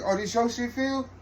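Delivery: high, surprised mock voice of the cousin; impressed cousin. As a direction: play the cousin, eyebrows up, impressed. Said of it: "And he like".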